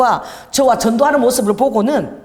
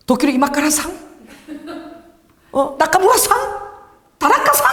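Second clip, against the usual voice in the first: playful guessing; 6 semitones higher than usual. Retold or imitated. Guessing stranger's name playfully.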